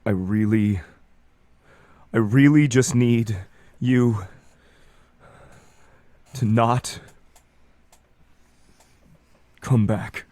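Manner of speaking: halting, effortful plea with long pauses; as loud as he gets. Acted. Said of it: "about as loud as it's gonna get for me".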